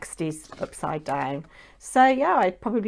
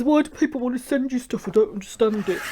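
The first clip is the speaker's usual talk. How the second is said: fast, high mock-husband voice; silly voice; 4 semitones higher, faster than usual. Wife mimics her puzzled husband in a silly voice. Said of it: "done that silly voice".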